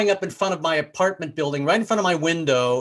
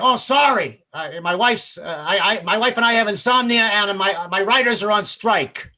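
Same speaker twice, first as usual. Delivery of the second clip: apologetic street talker; 4 semitones higher than usual. Retold or imitated. Street talker apologizes to the woken neighbor, hollered apology. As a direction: call back a hurried, stumbling apology. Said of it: "Luckily, he apologized".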